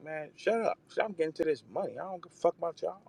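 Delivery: high, brash mock of Jazz barking back; high-pitched boastful Jazz impression; imitating Jazz. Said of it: "barking back at y'all like".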